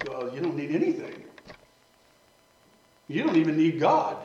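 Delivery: lightly imitated deep-voiced old preacher; a hint of a deep, raspy preacher, pitch popping up at phrase ends; J Vernon McGee. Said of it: "in that deep, raspy voice".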